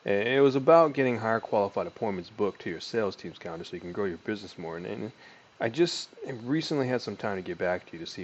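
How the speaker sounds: casual sales pitch voice; sales call script. Shown as a demonstration. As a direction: read the opener like a real call. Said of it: "start from the top".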